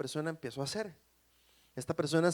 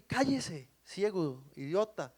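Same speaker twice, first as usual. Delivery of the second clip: mock scolding; slower than usual. Crowd silences the blind beggar, scolding. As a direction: hush him with mild contempt. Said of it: "lo reprendían para que se callara".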